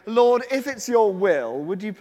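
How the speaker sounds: slow, churchy, over-careful prayer voice; a lightly hammed-up proper churchgoer praying; mock pious prayer. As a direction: pray timidly by the book. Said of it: "a very Christian, ... correct kind of prayer".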